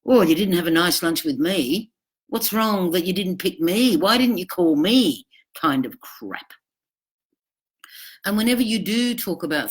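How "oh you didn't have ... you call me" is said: jealous whine. Retold or imitated. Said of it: "They're immediately in there".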